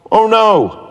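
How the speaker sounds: high, loud panicked "Oh no"; a boy's high yelp of dismay; yell. Acted. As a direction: cry out in alarm at the lost phone. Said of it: "yelled Daniel".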